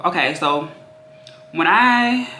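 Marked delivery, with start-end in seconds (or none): 1.5-2.3 breathless, gasping for air; out of breath. Real, not acted. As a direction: talk while short of breath. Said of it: "sorry, I'm out of breath".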